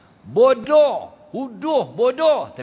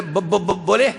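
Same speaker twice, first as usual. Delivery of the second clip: be stuttered three times before boleh; stammering man asking; mock stutter; 3 semitones higher, 4 dB louder than usual. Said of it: "dia tak gagap tu".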